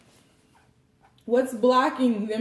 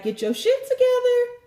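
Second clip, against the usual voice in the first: tough self-talk; 13 semitones higher, 3 dB louder than usual. Pretend. Self-talk to man in mirror.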